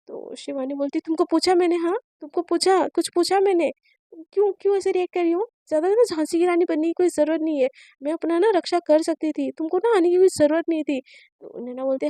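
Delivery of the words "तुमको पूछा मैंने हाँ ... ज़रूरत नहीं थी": angry scolding. Acted. Angry scolding of the injured girl.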